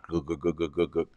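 soft repeated gook gook thuds; drill vibration noise. Retold or imitated. Patient describing drill vibration to viewers, soft imitated thuds. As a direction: tap out the drill's juddering rhythm. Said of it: "the deep vibration went".

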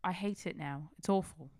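put-on weak British accent, sounds like a woman; attempted British accent. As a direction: try a posh British lilt, half-hearted. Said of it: "He sounds like a British woman".

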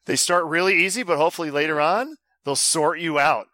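put-on Australian accent; bad Australian accent. Host reading listener's quiz email, bad Australian accent. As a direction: read it in a hammy Australian voice. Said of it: "Maybe I'll do my Battle Strand accent".

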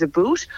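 "a boot" with a long oo; "about" rhymed with boot; mistaken Canadian "about". Shown as a demonstration. Actor debunking a Canadian stereotype, oo-vowel "a boot". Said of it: "You're never gonna find a single Canadian".

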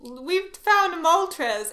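high, very slow robotic announcement; computer voice. Retold or imitated. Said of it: "in my computer voice".

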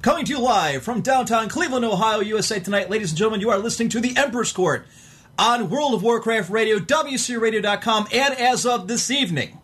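big booming show intro; radio announcer. Acted. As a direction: announce it like a live broadcast. Opens radio show as host.

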